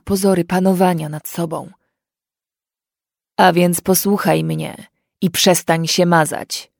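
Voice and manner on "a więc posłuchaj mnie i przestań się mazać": slow, loud grumbled order; gruff order. Acted. Fairy lord orders the crying girl to stop, slow and gruff. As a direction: grumble the command at her, slow. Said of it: "burknął na nią pan Jarel".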